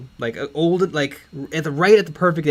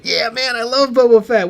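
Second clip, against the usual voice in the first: mock-thrilled fan, higher pitch; Patton Oswalt; 7 semitones higher, 5 dB louder than usual. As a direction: gush like an eager fan. Acting the thrilled fan's reply.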